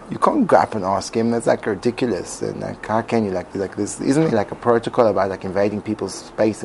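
hushed, hesitant self-doubt; timid inner voice. Retold or imitated. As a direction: talk yourself out of it softly. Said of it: "a part of me that says".

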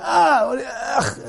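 mock revolted gasp turning to a grunt; hammed-up disgust; disgusted ugh. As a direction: spit out a foul taste. Reacting to the taste of alcohol.

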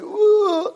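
high-pitched mock groan of reluctance. Preacher imitating someone reluctant to pray, high mock groan. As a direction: let out a high, hammed-up groan.

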